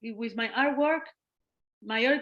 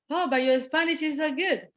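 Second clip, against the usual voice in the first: mock surprised compliment, pitched up; 5 semitones higher than usual. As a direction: imitate a surprised Spaniard. Retold surprised Spaniards.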